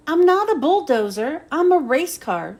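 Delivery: a race car insulted by roadwork; indignant. Acted. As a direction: push back proudly. McQueen refuses indignantly.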